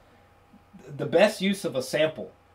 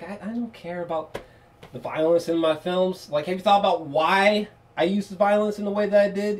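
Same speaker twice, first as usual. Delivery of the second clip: a light mock Tarantino voice; lightly voiced Tarantino, higher; imitating Tarantino; 3 semitones higher than usual. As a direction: casually voice the director defending himself. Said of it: "if Tarantino was talking about that".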